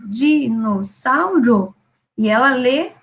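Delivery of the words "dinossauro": put-on Dinossauro read slowly, syllable by syllable, like a child. Shown as a demonstration. Teacher showing how a child reads, slow and split into syllables. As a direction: stretch Dinossauro out, one syllable at a time. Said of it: "cada tracinho representa uma sílaba".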